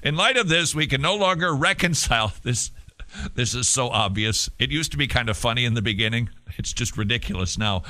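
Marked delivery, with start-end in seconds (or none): 0.0-2.7 higher-pitched mock British; resume the hammy British statement reading; put-on British accent. Host reading the Liverpool group's statement, bad British accent. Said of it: "I can't do a British accent".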